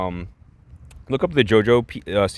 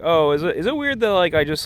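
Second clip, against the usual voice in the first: Haley; 8 semitones higher than usual. Retold or imitated. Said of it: "Haley's like".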